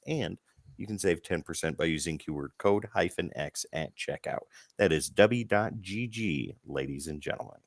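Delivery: upbeat sponsor pitch, ladies and gentlemen; ad read. Acted. Host reading the sponsor ad to viewers, upbeat ad read. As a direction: sell the energy drink like a show host.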